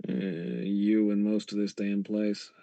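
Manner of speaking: soft-spoken roguish ghost, pitched a little down; Hildat. Acted. Ghost uncle questions his visitor at home, soft and low. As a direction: keep it quiet, as the shady dead uncle.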